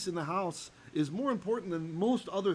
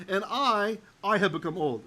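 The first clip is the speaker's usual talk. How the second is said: "And I" raised and louder, then "I" repeated; emphatic "I"; 3 semitones higher, 5 dB louder than usual. Shown as a demonstration. Teacher glossing the emphatic pronoun, "I" stressed twice. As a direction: hit both "I"s, the first one higher. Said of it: "you could think of this".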